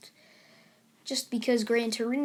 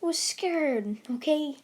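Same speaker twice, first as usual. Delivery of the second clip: upset scolding; 3 semitones higher than usual. Acted. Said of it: "She's like".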